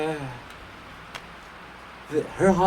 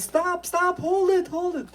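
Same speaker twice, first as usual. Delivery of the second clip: much higher, shouted stop; urgent shout. Acted. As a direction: throw yourself in front of the wagon. Herschel stops the wagon.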